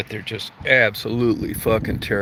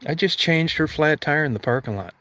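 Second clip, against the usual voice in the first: indignant protest; 7 semitones higher than usual. Retold or imitated. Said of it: "It's like".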